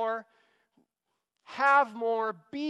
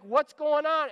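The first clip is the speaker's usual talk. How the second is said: mock frustrated older brother, higher and louder; raised, exasperated retort; 5 semitones higher, 6 dB louder than usual. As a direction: demand it as the resentful brother. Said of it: "he's really frustrated with this".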